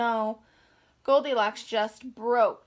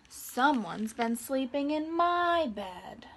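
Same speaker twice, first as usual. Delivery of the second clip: slow, hushed mama bear with a different timbre; lightly voiced Mama Bear; slower than usual. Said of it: "Mama Bear said".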